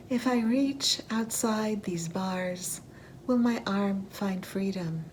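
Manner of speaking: deliberate, phrase-by-phrase poetry recital; poem reading. Acted. Poet voicing a prisoner's questions to listeners, measured recital. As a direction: lift each opening line, then pause between phrases. Reads own poem aloud.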